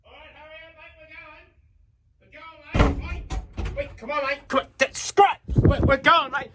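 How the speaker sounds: a pushy bloke rushing his mate to the car; ocker Aussie bloke. Acted. Ocker mate urging the Nugget off.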